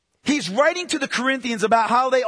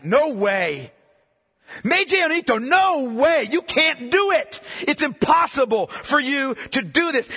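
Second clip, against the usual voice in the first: emphatic; 2 semitones higher than usual. Retold or imitated. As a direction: insist it can't be done. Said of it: "an emphatic".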